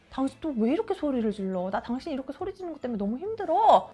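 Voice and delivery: acted aggrieved protest, pressing a little harder; put-upon complaint. Retold husband suddenly blaming wife for shouting, aggrieved. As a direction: complain like the wronged party, lightly dramatized. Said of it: "갑자기".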